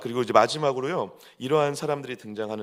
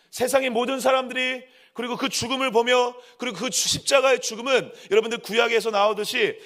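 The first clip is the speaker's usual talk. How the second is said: high, driving sermon crescendo; impassioned preaching; 10 semitones higher, 5 dB louder than usual. Real, not acted. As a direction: hammer each phrase out to the congregation. Preaches at full force. (열정적으로 외치는 설교)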